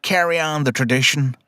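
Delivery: lightly voiced robot with an accent; a hint of a dying machine bidding farewell. Host quotes a dying robot to his cohosts, lightly voiced. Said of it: "that was a good accent".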